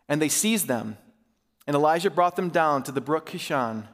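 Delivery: measured, earnest reading of a prayer; Scripture reading. A narrator's reading. Elijah praying before the people, read as earnest Scripture. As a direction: read the prayer out in deliberate phrases. Reads Scripture aloud to church.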